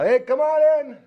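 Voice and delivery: loud, high holler to someone outside; big high-pitched shout; yelling out. Retold or imitated. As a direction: call out to a visitor at the door. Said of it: "So I just yell".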